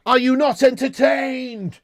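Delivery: a light Gladiator impression, slowed right down; Maximus Gladiator line. Streamer mocking a boring United half, slow mock Maximus. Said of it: "I'm actually not Maximus Decimus Ten Hagius".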